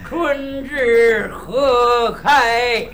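slow drawn-out recitation, lightly voiced old man; mock a deaf old man reciting to himself. Deaf old man musing aloud, slow and drawn out. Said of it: "学学聋子打岔".

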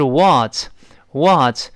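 slow American "what", moderately open; drawn-out American "what"; American pronunciation. Shown as a demonstration. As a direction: model "what" in American style, not overdone. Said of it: "美式呢口型变得大一些".

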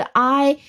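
"I" as the full diphthong, like eye; full I sound. Shown as a demonstration. Teacher shows the sound to avoid, "I" said like eye. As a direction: say "I" as the letter's name. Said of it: "这个I不再发成".

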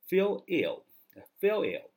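slow emphatic demonstration; slow drawn-out model. Shown as a demonstration. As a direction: stretch feel ill out for the class. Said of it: "teacher models the phrase".

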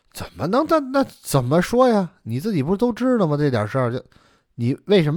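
high, stammering exasperation; exasperated retort. Acted. Elder brother confronting younger over the night visits, exasperated. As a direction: throw the question back, pitch jumping up.

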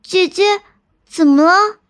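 high-pitched, curious little sister. Acted. Just-woken little sister asking her elder sister, curious. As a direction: ask with puzzled curiosity, voice lifted. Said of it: "妹妹好奇地问道".

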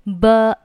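"but" cut off with no released t; silent final t. Shown as a demonstration. Teacher showing the option, "but" without its t. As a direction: say "but" as "buh", stopping short. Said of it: "but 末尾可以不用发音".

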